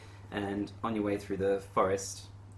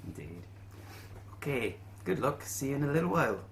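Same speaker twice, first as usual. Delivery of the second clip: lightly voiced quest-giver Willie; lightly put-on voice, lifted at phrase starts; innkeeper Willie; 4 semitones higher than usual. Innkeeper offering adventurers payment options, lightly voiced character.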